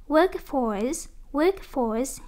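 "workforce" with the weight on WORK; stress on first syllable. Shown as a demonstration. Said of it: "nhấn âm một".

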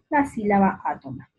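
ordinary talk

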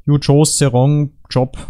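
slow mock German accent; drawn-out, hammed-up German accent. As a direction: deliver it slowly as a German villain. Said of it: "with a German accent".

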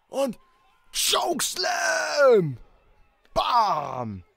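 drawn-out hype yell; excited shout. Real, not acted. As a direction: scream the move name. Live reaction to match.

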